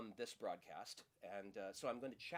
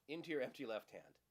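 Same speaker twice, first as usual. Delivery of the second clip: magician patter. Acted. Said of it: "Patrick Page's routine with his patter".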